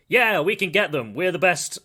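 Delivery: gung-ho mock pep talk; rallying cry. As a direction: pump up the troops, voice lifted. Voicing a general boosting morale.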